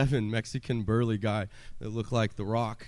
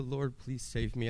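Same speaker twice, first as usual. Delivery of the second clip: soft plea; 2 semitones higher, 6 dB quieter than usual. Retold or imitated. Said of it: "those cries turned to".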